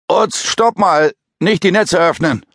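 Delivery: high, strained croaking call; panicked frantic pleading. Acted. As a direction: force out a desperate plea. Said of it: "mühsam und kaum hörbar hervor". (panisch flehendes Krächzen)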